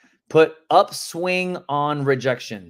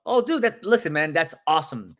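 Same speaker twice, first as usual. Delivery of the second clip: happy for them; 2 semitones higher than usual. Acted. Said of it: "you need to be happy for them".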